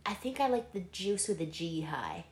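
soft unvoiced whisper. Real, not acted. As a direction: whisper it close. Whispered aside.

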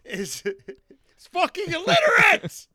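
a hammed-up imitation of a whiny partner; mocking partner. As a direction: mimic him as a shrill complaining brat.

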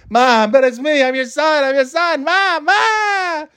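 put-on high, pleading wail of a terrified boy; rising into a desperate high cry for Mom; panicked son. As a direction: beg your mom in a cracking high voice. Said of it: "He's trying".

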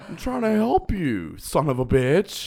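high mock yell; imitating angry woman. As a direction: shriek it like the woman in the video. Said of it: "woman in store video".

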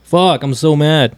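slow fake-mad drawl; mock anger. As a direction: pretend to be furious, slowly. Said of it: "No, I'm just kidding".

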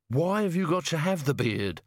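put-on grumbling old servant. A narrator's reading. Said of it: "said the voice from among the sacks".

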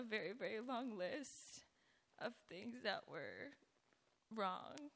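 hoarse, scratchy speaking voice; talking through a raspy throat. Real, not acted. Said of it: "Excuse my raspy voice".

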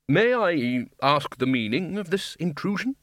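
coldly. Acted. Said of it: "said Ridcully coldly".

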